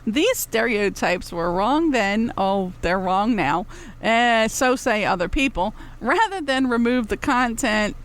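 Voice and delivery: slow, solemn corporate read, lightly parodied; mock Disney disclaimer. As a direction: recite it like a studio apology notice, tongue in cheek. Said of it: "I took that from Disney".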